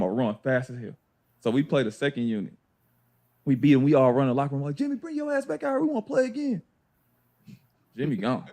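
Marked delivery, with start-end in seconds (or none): 4.7-6.6 retold calling out. Team calling into locker room, retold.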